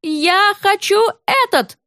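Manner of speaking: high, slow shouted demand; spoiled kid yelling in a shop; boy shouting. A narrator's reading. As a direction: yell it like a stubborn little boy. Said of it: "крикнул Сопля".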